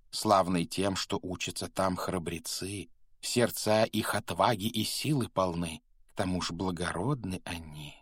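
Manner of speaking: measured, lilting verse recitation; singsong poem of a talking hat; rhymed hat song. A narrator's reading. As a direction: recite it rhythmically, stretching the line ends.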